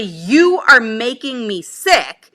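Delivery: slow, every word weighted; slow weighted You are making me sick; slow emphatic quote. Retold or imitated. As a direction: lay it out slowly, word by word. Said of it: "to say to somebody".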